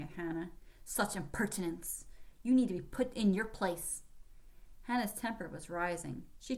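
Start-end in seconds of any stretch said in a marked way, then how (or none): 0.8-4.0 scowling rebuke. Acted. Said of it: "Lieutenant Pratt exclaimed, scowling".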